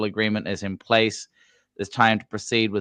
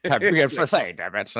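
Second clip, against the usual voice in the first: "beard for say" in a light put-on Aussie twang; a hint of an Aussie mate; mock Australian accent; 3 semitones higher than usual. Echoing his friend's Aussie take on the name. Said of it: "Aussie twang".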